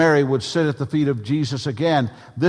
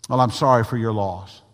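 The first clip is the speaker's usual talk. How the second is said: quicker, tossed-off condolence; rote catchphrase; 2 semitones lower than usual. Shown as a demonstration. Preacher mimicking a stock condolence, perfunctory. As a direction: say it as a stock phrase. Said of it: "a catchphrase".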